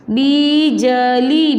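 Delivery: बिजली very slowly, as बी...ज...ली; syllable by syllable. Shown as a demonstration. Teacher showing pupils the new word, syllable by syllable. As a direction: stretch each syllable of बिजली. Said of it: "शब्द क्या बनेगा आपका?".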